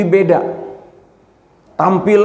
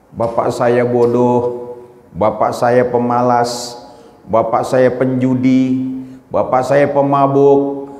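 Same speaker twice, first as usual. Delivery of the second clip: Iman Yakin, calm and resolved; 3 semitones lower than usual. Retold or imitated. Preacher voicing Iman Yakin answering about his success, low and measured. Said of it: "Kata Iman Yakin".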